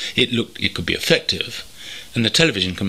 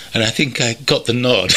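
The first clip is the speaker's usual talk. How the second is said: laughing; 4 semitones higher than usual. Real, not acted. Amused at own story.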